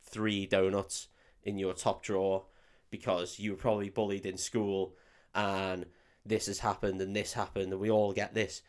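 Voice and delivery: low-key imitation of a whisper; softly voiced, confidential telling-off; retold whisper. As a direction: quietly lay it out, as if leaning in close. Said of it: "leans next to her and starts whispering".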